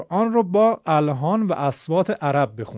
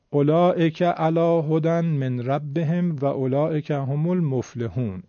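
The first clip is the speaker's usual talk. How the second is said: slow, simple Quran reading in a Persian accent; slower than usual. Shown as a demonstration. Teacher imitating a student who reads correctly but simply, Persian accent. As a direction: read the Arabic evenly with plain Persian sounds. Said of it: "لهجهش کاملاً فارسی".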